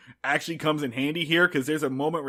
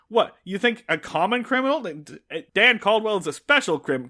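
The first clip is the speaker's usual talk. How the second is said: higher-pitched mock indignation; protesting; 4 semitones higher than usual. Barney defending himself to Andy, indignant protest. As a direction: protest it with raised pitch, in disbelief. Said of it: "Barney protests and says".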